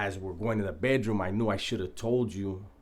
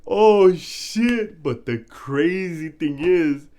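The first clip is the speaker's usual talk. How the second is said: higher and louder, slow words through leftover laughter; still laughing; 8 semitones higher, 11 dB louder, much slower than usual. Real, not acted. Telling the viewers the rest, still laughing. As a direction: talk while still catching your breath from laughing.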